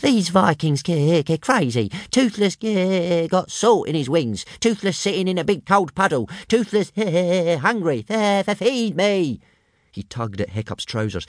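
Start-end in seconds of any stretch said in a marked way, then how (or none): 0.0-9.4 small dragon whining high and stuttery; a little dragon whines for food. A narrator's reading. Small dragon Toothless whines to Hiccup for food, high and stuttery. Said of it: "He was whining to Hiccup in Dragonese".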